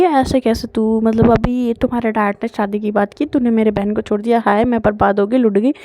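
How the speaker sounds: rapid dramatic rant, barely pausing; all in one breath. Acted. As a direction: rattle it off without a breath, hammed-up. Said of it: "एक सांस में ही तो सब कुछ बोल देती है".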